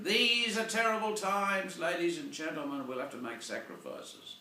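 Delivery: a hint of a solemn president addressing the nation; Obama speech. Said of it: "So Mister Obama is saying".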